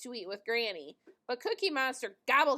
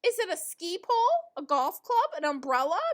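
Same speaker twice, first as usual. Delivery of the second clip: higher, louder eager guesses; excited guessing; 4 semitones higher, 5 dB louder than usual. Acted. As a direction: blurt out guesses, too excited to wait. Big Bird guesses the present.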